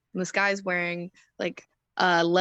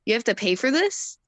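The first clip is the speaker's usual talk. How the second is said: mildly mock disbelief, pitched up; incredulous question; 4 semitones higher, 4 dB louder than usual. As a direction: imitate someone balking at a fee. Guy balks at paying for seminar.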